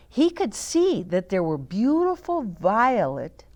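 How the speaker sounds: gentle read-aloud storytelling voice; story narration. A narrator's reading. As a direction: read it to the grandchildren, unhurried. Reading the picture book aloud.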